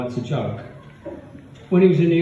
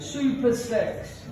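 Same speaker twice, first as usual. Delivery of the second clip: seductive stripper; 9 semitones higher, 3 dB quieter, much slower than usual. Retold or imitated.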